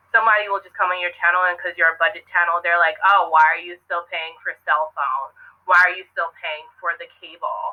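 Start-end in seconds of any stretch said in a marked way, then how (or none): 3.0-7.7 put-on mocking voice of a cheap commenter. Quoting a commenter on a budget channel, in a mocking put-on voice. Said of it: "I don't know why I'm using that voice".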